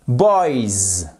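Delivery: put-on "boys" with a long buzzing z ending; falling "boys", held z at the end; final Z sound. Shown as a demonstration. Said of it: "le son, c'est un".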